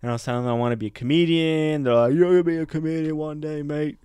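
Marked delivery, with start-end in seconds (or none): 2.1-4.0 a hint of Australian mate, pitched higher; lightly voiced Australian accent. Drinking buddies encourage the would-be comedian, light Australian accent. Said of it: "a bunch of Australian guys".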